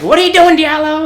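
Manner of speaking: very loud, high mock reprimand; hard chief's yell. Chief to recruit who can't march, mock angry yell. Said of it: "our chief was trying to be hard on him".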